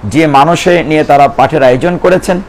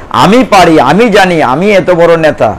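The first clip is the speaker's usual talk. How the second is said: puffed-up leader bragging, slowed; a hint of arrogant swagger; mock boastful. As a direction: play the proud ego, mildly hammed. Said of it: "এই আমিটাকে ছাড়া খুব কঠিন".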